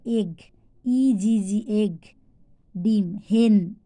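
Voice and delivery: এগ, হেন with a clear "eh". Shown as a demonstration. Teacher showing how E is pronounced, "eh" in এগ, হেন. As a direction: spell out ই G G, saying এগ with "eh". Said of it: "যখন এ হয় তখন কীরকম উচ্চারণ".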